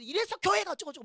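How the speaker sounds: high-pitched mock grumbling; retold angry rant. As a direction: imitate someone griping about church. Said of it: "막 화를 내도". (화내며 투덜대는 흉내)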